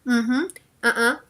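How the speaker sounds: hummed uh-huh, then uh-uh; sample little non-word voice noises; demonstrated vocal sounds. Shown as a demonstration. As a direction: show off wordless agreeing and refusing sounds. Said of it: "hacemos sonidos como".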